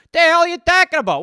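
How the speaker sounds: loud, fast, indignant snap; angry retort. Acted. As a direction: fire back at him, offended. Acted quarrel between two voices.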